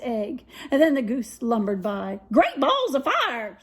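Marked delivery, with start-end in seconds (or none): 2.3-3.6 goose's cry. Acted. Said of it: "she cried".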